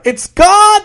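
high, loud shocked cry. Acted. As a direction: gasp it out in disbelief. Shock at missing book.

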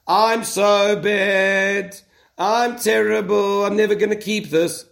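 slow, drawn-out mock lament; mock self-reproach. Penitent confessing as a heavy load, drawn-out self-reproach.

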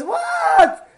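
"What?" leaps very high and long in disbelief; a friend can't believe a man is that beautiful, shocked high squeal. Retold or imitated.

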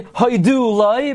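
"haidu loi" with DU stressed, crashing into LOI. Shown as a demonstration. Teacher showing what you can't say, "haidu loi" stressed on DU. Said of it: "So you can't say".

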